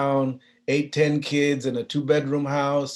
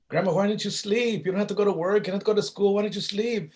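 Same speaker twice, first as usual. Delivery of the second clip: put-on child voice; 10 semitones higher than usual. Child questioning grandma at dawn.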